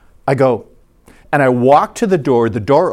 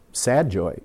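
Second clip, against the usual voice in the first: softer, understated gloom; mock sad; 3 semitones lower, 6 dB quieter than usual. Shown as a demonstration. Showing what joy isn't, mock sad. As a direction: say it with a downcast drop.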